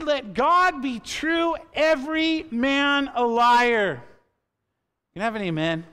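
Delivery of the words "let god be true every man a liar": louder, slow preached proclamation of "let God be true"; proclaiming verse. Acted. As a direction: ring the verse out to the church. Quoting Paul, then again softly.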